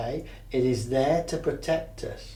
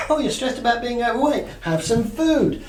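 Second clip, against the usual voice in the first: coaxing monkey voice; 9 semitones higher, 5 dB louder than usual. Retold or imitated. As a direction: dangle the food like bait. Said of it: "And then it says".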